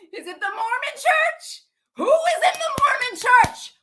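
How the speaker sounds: high, tearful questioning; real upset, voice pitched high; distraught demand. Real, not acted. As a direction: cry the question out, building to a shout. Distraught questioning after a breakdown.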